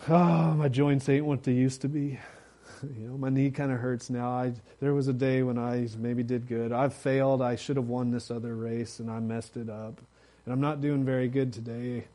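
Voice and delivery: mock whiny self-pity; Debbie Downer. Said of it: "comes as a Debbie Downer".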